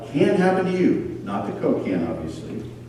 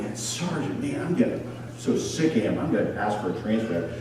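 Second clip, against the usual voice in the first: hushed griping; 7 dB quieter than usual. Retold or imitated. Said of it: "they're going".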